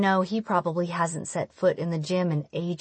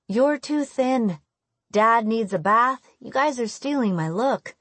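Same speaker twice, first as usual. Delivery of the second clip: higher-pitched, exasperated teasing; mock-indignant daughter listing complaints; teasing scolding; 4 semitones higher than usual. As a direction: chide mom playfully. Teen chiding her mom.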